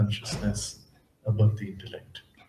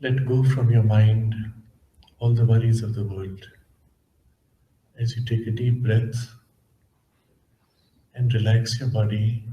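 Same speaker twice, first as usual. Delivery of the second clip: measured, calm instructions, leaving space between phrases; guided meditation. Acted. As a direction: gently guide listeners inward, unhurried.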